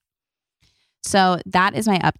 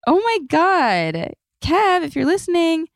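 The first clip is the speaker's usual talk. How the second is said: overwhelmed with happy tears; moved; 10 semitones higher than usual. Real, not acted. Still emotional after voicemail.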